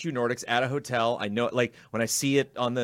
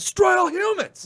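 very high, loud, blurted exclamation; 7 dB louder than usual. Retelling reacting to a game title announced near its devs: retelling a loud exclamation. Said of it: "I just exclaimed out loud".

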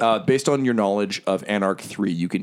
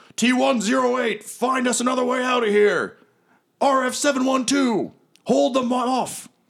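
very high-pitched, forceful shouting. A character yells orders to his companions in the middle of a fight: yelling orders. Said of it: "He yells".

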